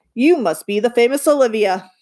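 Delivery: friendly big-voiced greeting; booming. The man greeting Livy, mildly booming. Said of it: "The man booms".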